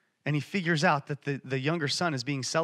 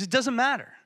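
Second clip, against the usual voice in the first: higher, louder brushing-off, acted; emphatic dismissal; 7 semitones higher, 4 dB louder than usual. Father interrupting his son's confession, emphatically dismissive. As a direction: wave the apology away in a raised voice.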